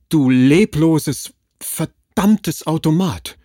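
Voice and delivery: slow, roaring indignant shout; indignant outburst. A narrator's reading. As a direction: hurl the words at her in rage. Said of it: "sprang Nathanael entrüstet auf".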